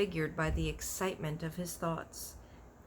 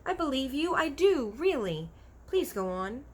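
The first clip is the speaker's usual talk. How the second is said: put-on pleading girl; 8 semitones higher, 5 dB louder than usual. A narrator's reading. Sophie pleading.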